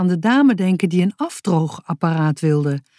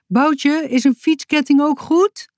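higher, calling down from the mountain; 8 semitones higher than usual. A narrator's reading. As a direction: call up to him from far off. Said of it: "riep Sisi iets vanaf de berg". (roepend van de berg af, hoger)

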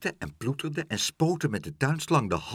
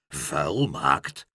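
alarmed; 8 semitones lower than usual. A narrator's reading. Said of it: "riep vader Stamper verschrikt".

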